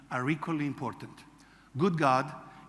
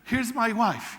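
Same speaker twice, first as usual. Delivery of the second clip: eager introduction; 7 semitones higher, 6 dB louder, slower than usual. Retold or imitated. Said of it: "He says".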